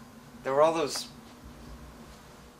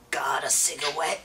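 slow, higher mock old-lady voice with "cigawet"; imitated old lady; 4 semitones higher than usual. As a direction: mimic her slowly, pitched up, R turned to W. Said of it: "She called it a cigarette".

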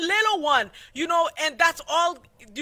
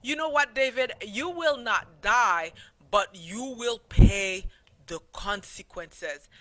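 gentle verdict; 3 semitones lower than usual. Acted. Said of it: "And what does Nathan answer".

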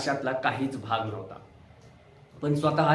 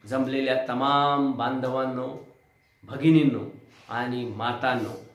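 slow, drawn-out rally greeting; rally speech. Retold or imitated. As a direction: greet the crowd like Uddhav Thackeray at a rally. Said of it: "असा आवाज लावणाऱ्या". (सभेत लोकांना संबोधणारा आवाज)

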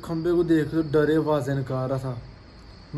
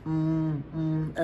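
crying monkey sound; much slower than usual. Retold or imitated. Owner imitating his frightened monkey's whimpering, mild hummed whine. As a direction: lightly mimic a scared monkey's whine. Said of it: "आवाज़ें निकालनी शुरू हो गई, रोने वाली।".

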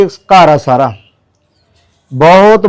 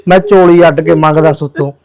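tearful plea. Real, not acted. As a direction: voice breaking while begging for help. Pleading for help, voice breaking.

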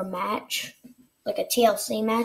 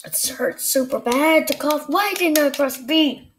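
pained whine; 3 semitones higher than usual. Real, not acted. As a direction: wail it through the hurt. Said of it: "I'm actually crying".

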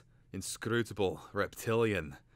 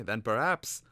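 impatient; 4 semitones higher, 5 dB louder than usual. Acted. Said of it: "said impatiently".

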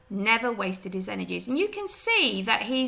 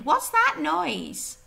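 Mrs Hoggett's question; 6 semitones higher, 5 dB louder, much slower than usual. Acted. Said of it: "she talks really quickly".

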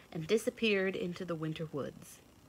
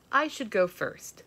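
put-on proud young buck; 4 semitones higher, 6 dB louder than usual. A narrator's reading. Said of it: "said the young buck".

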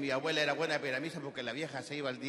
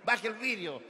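raised-pitch insistent demand; lightly voiced insistent policeman; policeman's order; 4 semitones higher than usual. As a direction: repeat the order like a cop at a car window. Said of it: "el carabinero lo miraba y le golpeaba el vidrio y le decía".

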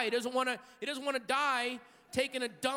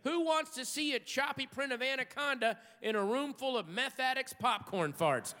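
normal talking voice

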